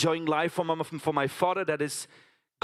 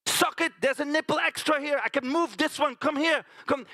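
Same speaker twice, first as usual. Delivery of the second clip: put-on child coaxing piglets; 7 semitones higher than usual. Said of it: "So, so I'm saying".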